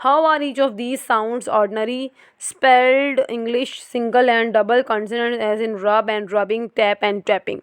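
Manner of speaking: very slow, careful reading from the book; textbook reading. Acted. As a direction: read each word out deliberately. Reads textbook English aloud.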